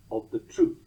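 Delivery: "of the truth" with a loud beat on TRUTH; two light words then stressed "truth" in "of the truth"; single foot. Shown as a demonstration. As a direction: isolate "of the truth" as titty-TUM. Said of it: "and the fourth foot".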